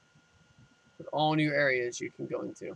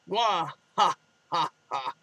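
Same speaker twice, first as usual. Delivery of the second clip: short booming villain cackle; classic villain laugh; 3 semitones higher than usual. Acted. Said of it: "Classic villain laugh".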